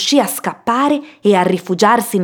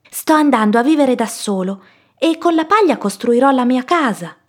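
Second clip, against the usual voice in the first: higher-pitched piglet voice; lifted, childlike storybook pig; eager little pig; 5 semitones higher than usual. Acted. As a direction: explain it like a little pig proud of a plan. Little pig explains his plan.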